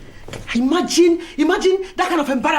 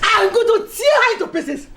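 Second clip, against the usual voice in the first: angry shout; 4 semitones higher than usual. Acted. Betty vows revenge, shouting.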